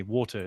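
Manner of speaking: Water with a crisp t and no r at the end; British water. Shown as a demonstration. Brit giving his own Water, crisp t, no r. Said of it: "is what I would say".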